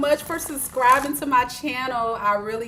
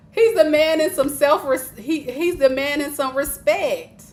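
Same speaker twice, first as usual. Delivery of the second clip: laughing; 4 semitones higher, 4 dB louder than usual. Real, not acted. Laughing while reading.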